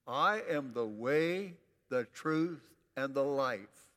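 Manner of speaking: loud, slow chant-along lead; wakened-up recital. Shown as a demonstration. Preacher counts the congregation in to shake it loose, rousing and loud. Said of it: "Wake up. Shake yourself".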